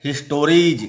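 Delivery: हिस्टोरीज ending in a clear ज sound; final s as j. Shown as a demonstration. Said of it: "इसका उच्चारण क्या करेंगे?".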